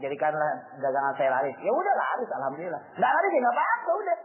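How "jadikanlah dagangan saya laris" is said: humble prayer. Pretend. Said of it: "ketika kita doa".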